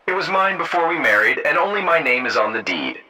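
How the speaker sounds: firm, insistent statement; assertive. A narrator's reading. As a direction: assert it, starting high and settling down. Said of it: "I asserted".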